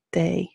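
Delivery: "de" starting like a hard th; soft Irish D. Shown as a demonstration. Teacher contrasting with English D, th-like "de". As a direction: say "de" with the tongue as for th. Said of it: "a hard T H".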